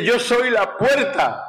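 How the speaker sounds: impassioned scripture proclamation; preaching. Acted. Preaches quoting Jesus' words.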